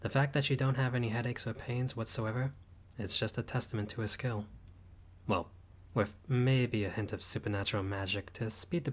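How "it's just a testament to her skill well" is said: ordinary talk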